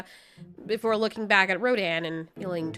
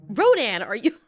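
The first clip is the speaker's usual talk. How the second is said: much higher, laughing disbelief at his cluelessness; incredulous teasing; 12 semitones higher, 6 dB louder than usual. Acted. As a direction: tease him, amazed he missed it. Mothra teasing Rodan.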